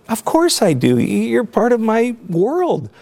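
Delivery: high-pitched, emotional retold reassurance; choked up. Real, not acted. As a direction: lift the voice high, choked with feeling, slowing at the end. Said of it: "I get a little choked up".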